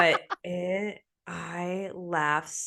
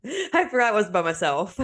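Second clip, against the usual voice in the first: laughing; 5 semitones higher than usual. Real, not acted. Laughing at her own startle.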